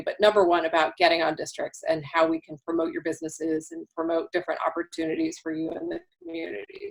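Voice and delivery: losing her voice, a bit hoarse; worn, hoarse voice from talking all day. Real, not acted. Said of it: "sorry, I'm losing my voice".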